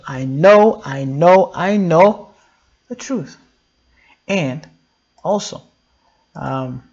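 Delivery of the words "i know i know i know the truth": emphatic declaration. Shown as a demonstration. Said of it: "Being sure about the truth means what?".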